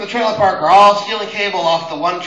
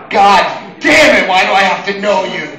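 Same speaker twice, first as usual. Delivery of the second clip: loud fed-up shout at the coworker; exasperated shout; 6 dB louder than usual. Retold or imitated. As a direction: shout it out in mock despair. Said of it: "and I'm like".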